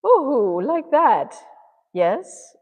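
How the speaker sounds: high, loud, hooting TV-cook voice; Julia Child. Acted. Painter trying out a famous cook's voice, playful impression. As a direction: swoop up high on a loud, fluty ooh. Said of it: "what Julia Child sounds like".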